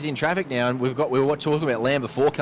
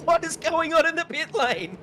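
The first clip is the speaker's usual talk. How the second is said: laughing. Real, not acted. Chaotic pit lane, co-host laughing.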